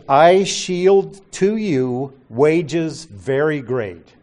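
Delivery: slow reading, each word set apart; deliberate, spaced-out literal quote. Shown as a demonstration. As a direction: spell out a literal rendering word by word. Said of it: "it reads".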